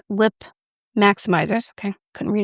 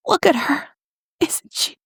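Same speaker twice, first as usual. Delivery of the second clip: higher, delighted coo; 6 semitones higher, slower than usual. Real, not acted. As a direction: then drop to a whisper. Cooing over compact.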